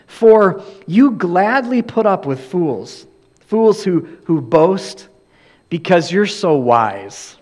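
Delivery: slow, dry mock praise of the Corinthians; sarcastic. Preacher reading Paul's jab at the Corinthians, sarcastic. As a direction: let the irony drip on "so wise". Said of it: "you can hear the sarcasm that Paul says".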